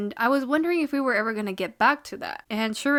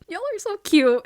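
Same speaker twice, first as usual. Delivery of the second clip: high, loud fangirl squeal; gushing squeal; 10 semitones higher, 6 dB louder than usual. Real, not acted. Reacting to a cute anime moment, a high loud squeal. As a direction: squeal it like the cuteness is too much. Fan gushing at sweet scene.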